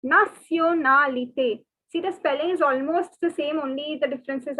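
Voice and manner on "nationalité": nationalité as na-sio-na-li-té; nationalité, French pronunciation. Shown as a demonstration. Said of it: "is pronounced as".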